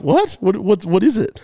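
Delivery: high, stammered questioning; baffled. Retold or imitated. Customer hearing about powerful stuff, baffled. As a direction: repeat the question, thrown off. Acts out his baffled reply.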